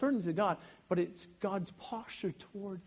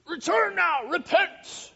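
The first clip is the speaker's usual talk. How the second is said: booming high mock preacher voice; fire-and-brimstone preacher; 10 semitones higher, 8 dB louder, slower than usual. Mocking a finger-wagging preacher who shouts at the crowd, booming. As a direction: parody a pulpit-pounding preacher. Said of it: "the preacher's, like, slamming on the, on the pulpit, and he's finger wagging".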